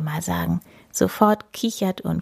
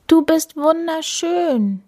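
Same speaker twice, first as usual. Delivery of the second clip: gushing; 9 semitones higher, 3 dB louder, slower than usual. Acted. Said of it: "schwärmt Amanda".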